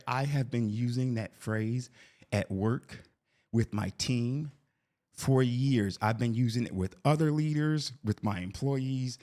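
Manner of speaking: drawn-out phrases with dramatic gaps; slow mock confession. Wife confessing to husband about using it at work, slow mock confession. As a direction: imitate a horrified admission, piece by piece.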